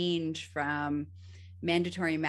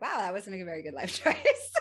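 laughing. Retold or imitated. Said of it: "I'm laughing".

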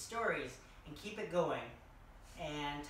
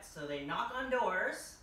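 slow it right down, then push louder on don't barge in; slowed, emphatic reading; 3 semitones higher, 3 dB louder than usual. A narrator's reading. Reading to children, slow and firmly emphatic. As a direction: drag each word out to teach the rule.

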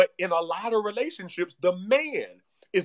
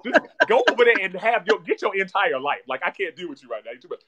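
imitating an exasperated wife waving him away; wife's exasperation; 6 dB louder than usual. Wife telling husband to sit down, imitated. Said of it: "my wife is like".

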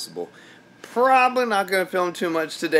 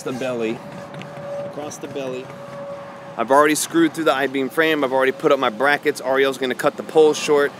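raised voice over the wind; shouting over wind; 4 dB louder than usual. Real, not acted. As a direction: project loudly over the wind. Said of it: "I hope you can hear me through the wind".

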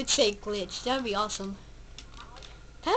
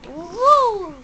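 yelled battle cry; battle shout; 5 semitones higher, 9 dB louder than usual. Real, not acted. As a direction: shout it as you attack. Vacuuming a ghost in game.

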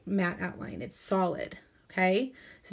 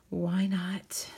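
playful whisper; 3 semitones lower, 4 dB quieter than usual. Real, not acted. Playful aside while crafting.

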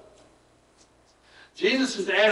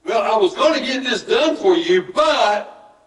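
excuse-making; 4 semitones higher, slower than usual. Acted. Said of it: "give excuses or blame".

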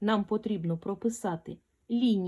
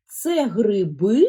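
ГРИБИ with БИ loud, long and rising; slow echo question, leaning hard on the end of ГРИБИ; questioning stressed syllable; 5 dB louder, slower than usual. Shown as a demonstration. Teacher has pupil listen for the stress, stretched questioning ГРИБИ. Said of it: "Послухай".

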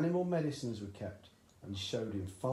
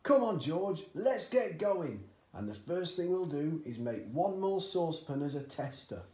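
high, loud, eager push; hurrying dad; 6 semitones higher, 6 dB louder than usual. A narrator's reading. Father hurrying his son off, high and loud. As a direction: rush the boy into action. Cranky hurries George.

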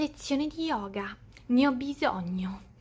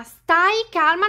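panicky; 3 semitones higher, 5 dB louder, slower than usual. Acted. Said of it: "ma è nel panico!".

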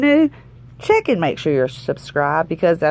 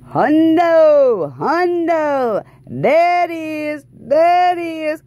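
excited; 8 semitones higher, much slower than usual. Real, not acted. Hundred dollar win revealed.

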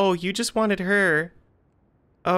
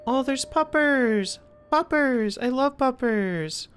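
high, slow gushing over puppers; delighted; 4 semitones higher, slower than usual. Real, not acted. Streamer hearing dogs howl, gushing high and slow. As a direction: coo over the dogs with joy.

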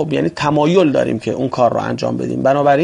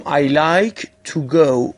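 slow model reading; much slower than usual. Shown as a demonstration. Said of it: "باید بگم".

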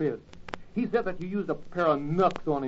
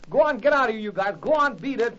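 loud shooing; 4 semitones higher, 4 dB louder than usual. Acted. Spud chases the kids away.

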